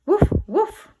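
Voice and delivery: high, loud playful woofs; dog barking. Acted. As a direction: bark like an excited puppy. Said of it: "said Marley".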